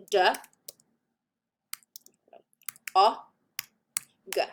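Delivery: "D, O, G" as sounds, long gaps between; sounded-out phonemes. Shown as a demonstration. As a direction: sound out "D, O, G" one by one, not as letters. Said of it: "made up of three phonemes".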